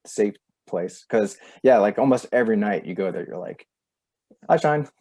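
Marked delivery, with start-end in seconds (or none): 4.5-4.9 higher-pitched delighted hello; excited greeting. Retold or imitated. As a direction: re-enact spotting them, voice lifted and louder. Voicing her nightly greeting to eyeshine.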